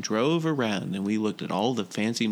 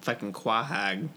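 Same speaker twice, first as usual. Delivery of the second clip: put-on Rhode Island accent; 3 dB quieter than usual. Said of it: "He said quahog".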